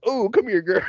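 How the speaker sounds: high, wheedling mock call; creepy beadle. Beadle beckoning Joanna, mock creepy high call. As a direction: lure her in, hammed up. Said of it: "and he goes".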